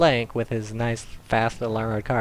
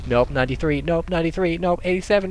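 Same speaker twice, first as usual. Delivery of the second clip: frantic searching; 10 semitones higher, 4 dB louder, faster than usual. Pretend. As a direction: pitch climbing to a loud, high peak. Frantic mock hunt for right round.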